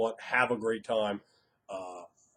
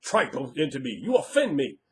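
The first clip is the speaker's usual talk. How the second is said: high, loud hammed-up scolding of a player; mock scolding; 3 semitones higher, 4 dB louder than usual. GM rejecting a player's character concept, mock outrage. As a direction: scold like an outraged old boss, overplayed. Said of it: "Tell the player, say".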